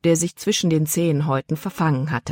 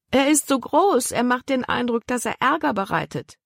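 put-on a light girl's voice, much higher; worried girl; 8 semitones higher than usual. A narrator's reading. Girl complains to her father about the dog, higher worried voice. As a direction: fret about the huge dog, high-pitched.

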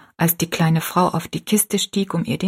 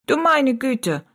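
put-on little old woman exclaiming; 7 semitones higher, slower than usual. A narrator's reading.

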